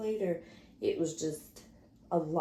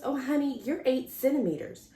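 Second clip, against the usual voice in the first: seasoned nurse; 5 semitones higher, 3 dB louder than usual. Retold or imitated. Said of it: "Seasoned nurse looked at me. She goes".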